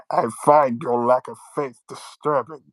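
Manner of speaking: muffled through hands over face. Retold or imitated. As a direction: cup hands over mouth like a mask. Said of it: "you have your hands over your face for you, for the mask".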